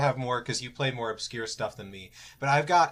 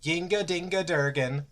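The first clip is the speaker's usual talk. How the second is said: mock Swedish sing-song, pitched up; 5 semitones higher than usual. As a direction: fake some Swedish gibberish, higher than usual. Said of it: "because I'm Swedish".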